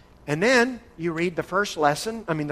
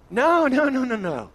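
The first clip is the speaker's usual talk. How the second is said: emphatic no; 8 semitones higher, 4 dB louder than usual. Real, not acted. Rejects forcing belief on people.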